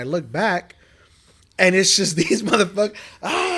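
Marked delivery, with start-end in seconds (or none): 3.2-3.6 high-pitched mock yell; mock scream. Friend acts out the gang charging across the street, mock scream. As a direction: cry out like charging minions.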